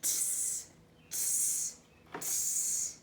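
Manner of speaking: soft unvoiced tsk tsk tsk; cheeky monkeys tsking back. Monkeys mocking the peddler, soft cheeky tsking. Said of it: "and said".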